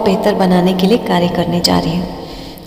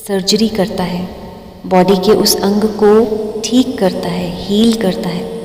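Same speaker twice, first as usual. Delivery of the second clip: slow, drawn-out meditation guidance with long pauses; guided meditation. Acted. Meditation teacher guiding listeners through breathing, slow guided-meditation voice. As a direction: stretch key words and leave room to breathe.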